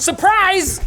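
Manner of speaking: piercing, shrill, very high and very loud yell. After viewers are asked to subscribe and you are told to stop, cut in yelling. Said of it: "(the speaker yells)".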